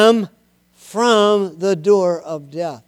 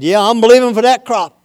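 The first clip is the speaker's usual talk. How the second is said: a hint of a farmer, higher and quick; lightly voiced farmer; 4 semitones higher, much faster than usual. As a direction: lightly play a farmer talking fast. Farmer voiced in a sermon illustration.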